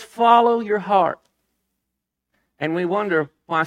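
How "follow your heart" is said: mocking slogan. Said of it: "a culture that says".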